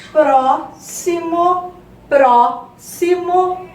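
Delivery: PRÓ-ximo, first syllable punched high and held; stress on PRÓ. Shown as a demonstration. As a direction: say "próximo" slowly, hitting "pró" hard, then "ximo" apart. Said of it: "a sílaba tônica vai ser o pró". ("próximo" devagar, com o PRÓ bem forte e agudo)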